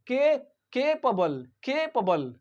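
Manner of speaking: capable as "KAY-puh-bul", after a lone K; careful pronunciation. Shown as a demonstration. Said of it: "how do we pronounce this word".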